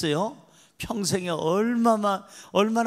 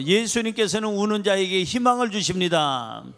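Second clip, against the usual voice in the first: said again with more volume; louder repeat. Shown as a demonstration. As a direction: proclaim it louder, second time through. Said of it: "다시 한번요".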